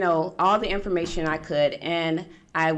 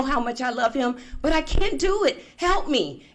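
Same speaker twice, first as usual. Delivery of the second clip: higher, urgent re-enacted plea; distressed pleading; 5 semitones higher than usual. New mother phones her mom for help, distressed pleading. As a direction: let it build into a desperate appeal.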